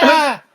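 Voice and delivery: high, loud yelp of fright; startled scream. Acted. Injured captive waking to strangers, screaming in fright.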